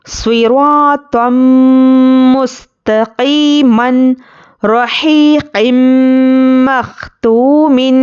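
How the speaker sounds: slow, drawn-out tajweed recitation; Quranic recitation. Shown as a demonstration. Teacher recites idgham examples for students, slow tajweed. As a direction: chant each example with measured pauses.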